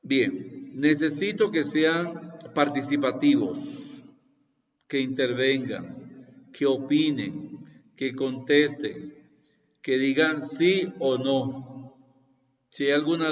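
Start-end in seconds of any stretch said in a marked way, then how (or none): 0.8-12.0 slow, deliberate, each demand stressed; urging, emphatic. Shown as a demonstration. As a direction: spell out each demand slowly. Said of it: "teacher urging participation". (exigiendo despacio, marcando cada petición)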